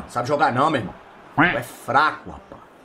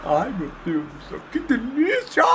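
mock delight; 3 semitones higher, 5 dB quieter than usual. Mocking the opponent's joy.

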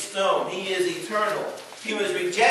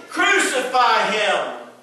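crying out; 4 semitones higher, 4 dB louder, much slower than usual. Retold or imitated. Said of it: "they cried out the more".

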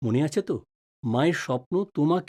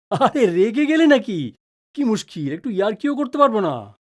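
teasing; 5 semitones higher, 3 dB louder than usual. Acted. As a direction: needle her gently about getting angry. Husband teasing upset wife.

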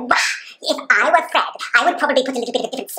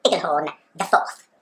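posh host voice; 6 semitones lower than usual. Acted. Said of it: "I, of course, am your host".

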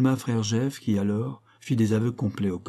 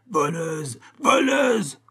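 voleuse screamed much higher and louder; frenzied screaming; 8 semitones higher, 4 dB louder, much slower than usual. A narrator's reading. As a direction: scream it over and over, out of control. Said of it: "il ne cessait de hurler". (hurlements frénétiques)

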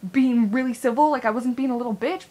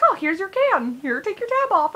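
high, louder friendly offer; nice mom impression; 8 semitones higher, 4 dB louder than usual. Mom handing her kid a can, imitated niceness. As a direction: imitate a mom being sweetly helpful. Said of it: "she was being so nice to me".

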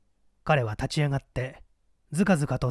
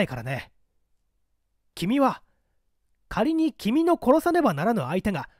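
higher, rising ever higher into pressing questions; probing young comrade; 6 semitones higher than usual. Acted. Young member 76 presses 224 with a dreadful moral dilemma, higher and insistent. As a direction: push him harder with each question, climbing. 76 poses a grim hypothetical.

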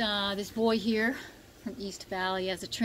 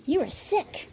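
higher voice telling the dog; high pet talk; 9 semitones higher, slower than usual. Real, not acted.

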